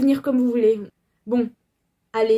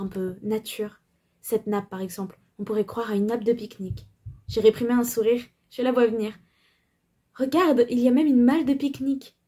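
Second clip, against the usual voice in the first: bourgeois lady voice. Acted. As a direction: play a prim bourgeoise. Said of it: "j'essaye de lui faire une voix de bourgeoise". (voix de bourgeoise)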